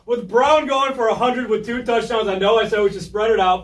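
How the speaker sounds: talking through a burning mouth; tongue numb from hot pepper; mouth burning from spicy food. Real, not acted. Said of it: "I can't talk".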